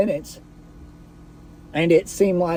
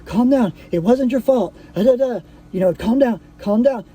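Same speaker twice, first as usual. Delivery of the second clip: higher-pitched imitation of a panicked partner; mock-panicked soothing in a higher voice; imitated panic; 5 semitones higher than usual. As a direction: retell her urgent pleading, pitched up. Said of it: "like, in a panic".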